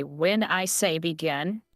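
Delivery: slow, deliberate officer imitation; over enunciating. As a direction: spell each word out slowly. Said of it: "many of 'em begin when they say".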